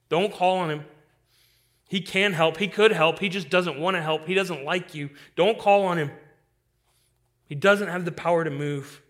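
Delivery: the inner doubter presses harder; doubt's voice rising. Acted. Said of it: "recognize this voice in your heart".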